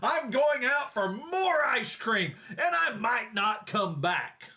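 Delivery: slow, drawn-out angry threat; hammed-up storming-off voice; mock yelling husband. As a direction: stretch out the threat like a huffy husband. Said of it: "he yells".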